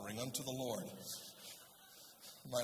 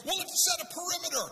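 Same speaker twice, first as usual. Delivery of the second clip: high, loud action-movie order; mock urgent command; 13 semitones higher, 7 dB louder than usual. Amateur firefighters decide their plan, mock-urgent shout. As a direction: call it out like a mock emergency drill. Acting out the team's emergency plan.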